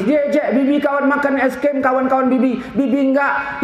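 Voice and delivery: put-on high-pitched hurt kid; mock tearful little voice; tearful child. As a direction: imitate a left-out child complaining. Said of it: "Kenapa nangis?".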